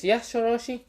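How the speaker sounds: high, eager creature voice; summoned snake voice. Acted. The summoned snake answering its master, high and eager. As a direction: answer like a devoted pet snake. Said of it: "just says".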